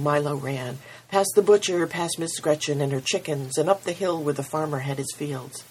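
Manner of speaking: steady storytelling voice read to a congregation; story narration. A narrator's reading. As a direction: tell it like a parable, unhurried. Reads story aloud at service.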